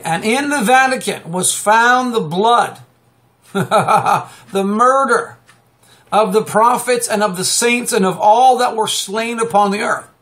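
scripture reading. Acted. Reads scripture aloud.

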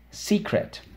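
hushed stage whisper of the word. Shown as a demonstration. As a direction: whisper it, breathy and high. Teacher varies the drill word.

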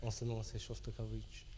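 English speaker's French, hesitant; halting French with English accent. Real, not acted. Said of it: "pardon ma, mon français".

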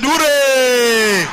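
high, long cheering yell; children shouting. Retold or imitated. Children mistake the stammer for a cheer, high shout. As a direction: cheer at full voice like pupils. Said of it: "The children shouted".

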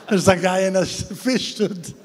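mock-bewildered protest with amusement creeping in; baffled complaint. Retelling actor's baffled complaint to director.

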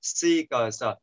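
"six" split into "si", "cờ", "sờ", each sound said on its own. Shown as a demonstration. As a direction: break "six" into "si", "cờ", "sờ", one sound at a time. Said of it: "S, I, K". (tách "six" thành "si", "cờ", "sờ")

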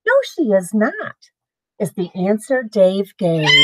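lively storybook read-aloud; reading to children. Acted. Parent reading a picture book to the kids, lively. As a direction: read it bright and sing-song for little ones.

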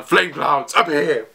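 drawn-out, mock battle command; Momonosuke. Narrator acting out a command to the flame clouds, drawn-out mock call. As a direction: call out a summoning slowly, hammed-up. Repeats the imitated attack call.

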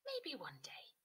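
unsure little whisper; whispered hesitant reply. Acted. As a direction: breathe it, doubtful. Doubtful Cody answers.

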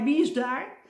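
high, loud alarmed yell; startled shout. Acted. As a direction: shout out in sudden fright. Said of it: "schreeuwde hij".

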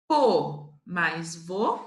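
very slow, syllables held apart; slow syllable joining. Shown as a demonstration. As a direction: join the syllables patiently. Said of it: "syllable joining demo".

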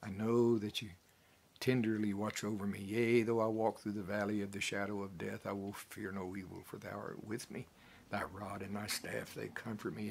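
sincere, hushed psalm prayer; trusting prayer. Shown as a demonstration. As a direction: pray it calmly, leaning on God. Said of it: "do it with the right attitude".

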